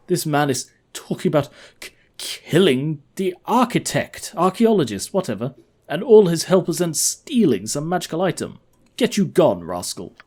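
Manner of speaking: halting outrage, pitched high; indignant paladin. Acted. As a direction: splutter at the scheme, then dismiss the villain.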